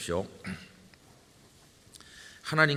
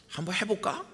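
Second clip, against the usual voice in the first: tempted thought; 9 semitones higher than usual. Retold or imitated.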